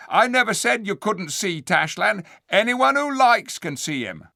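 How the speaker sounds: high, loud scheming ape voice; sly ape. Acted. The ape answering the dwarfs, sly and loud. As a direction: slick and sneering.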